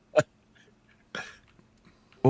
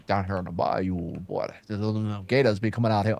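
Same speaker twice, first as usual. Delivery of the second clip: put-on Creole accent; 4 semitones lower, 6 dB quieter than usual. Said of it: "Creole, Creole".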